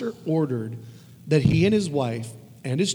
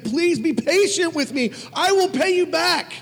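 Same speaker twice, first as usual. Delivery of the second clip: begging; 12 semitones higher, 4 dB louder than usual. A narrator's reading. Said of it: "he begged him".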